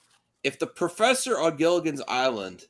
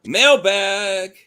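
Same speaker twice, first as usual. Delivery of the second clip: higher, louder announcer call; hammed-up show announcer; segment announcer; 7 semitones higher, 8 dB louder than usual. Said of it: "announcing segment".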